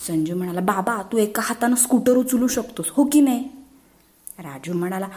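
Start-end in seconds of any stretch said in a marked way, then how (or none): 0.6-3.5 put-on higher, pestering little-boy voice; eager child pleading. Boys pestering their father, eager higher child voice. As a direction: coax dad eagerly.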